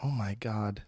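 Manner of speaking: breathless whispered awe; awed whisper. Real, not acted. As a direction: whisper it, stunned. Awed by Latin reading.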